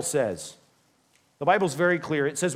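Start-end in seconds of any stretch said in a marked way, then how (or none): none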